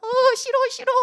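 high-pitched mock protest; whiny refusal. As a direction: protest while being dragged along. Calvin protesting again as dragged along.

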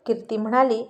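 usual speaking voice

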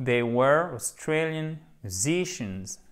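slow, careful English recap; prononciation modèle. Shown as a demonstration. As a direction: model the whole sentence word by word, stresses clear. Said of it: "il y a plein de pièges au niveau prononciation". (phrase anglaise modèle, lente et bien articulée)

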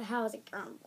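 mock winded YouTuber greeting; out of breath. Kid imitating a YouTuber's greeting, pretend breathless. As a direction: let it fade as breath runs out. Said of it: "I don't have no more breath".

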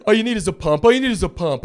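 put-on nervous teen clerk. Stand-up comic mimicking his nervous teen self. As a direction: squeak out the pitch like a scared kid.

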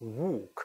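walk as "wohk" with rounded lips; rounded British vowel. Shown as a demonstration. Teacher explaining mouth shape, British rounded walk. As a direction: keep the jaw up on walk. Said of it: "입을 둥그렇게 덜 열고".

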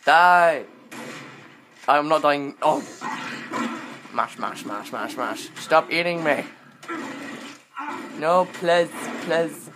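loud desperate yelling in a fight; frantic shouting. Real, not acted. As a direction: fight back, then beg loudly. Fighting a jaguar attacking.

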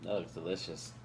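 slow, savoring mmm; appreciative mmm. Real, not acted. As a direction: relish the taste, lingering. Tasting ice cream, savoring it.

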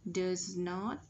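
"Does not" with a crisp final t; careful model "Does not", final t sounded; ending T released. Shown as a demonstration. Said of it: "Ending sound".

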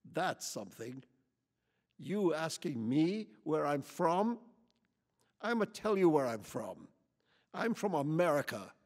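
loud, high, building hostile rant; angry tirade. A narrator's reading. Lady interrogates Quichotte about where he's from, furious. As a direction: pile accusations on him.

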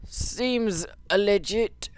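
slow, drawn-out deadpan. Real, not acted. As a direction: drag it out, unimpressed. Deadpan comment.

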